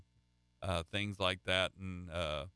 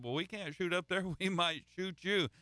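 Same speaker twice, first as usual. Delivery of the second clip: retold hunter's reply; 7 semitones higher than usual. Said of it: "And they said".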